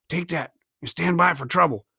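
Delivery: low, hushed warning; a lightly voiced pirate, kept down. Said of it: "he whispered".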